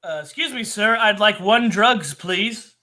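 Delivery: polite customer. Pretend. A customer asks politely for drugs, in a mock-timid voice. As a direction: play a timid customer politely asking the counter guy for drugs.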